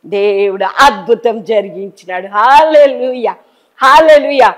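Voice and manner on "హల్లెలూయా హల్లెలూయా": joyful praise. Real, not acted. Preacher praising God.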